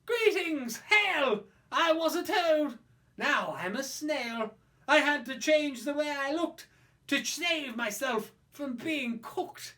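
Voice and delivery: high, loud hearty greeting; jolly snail. Acted. Snail greets the child proudly, loud and high. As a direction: boom a cheerful hello from the giant snail. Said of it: "The snail said".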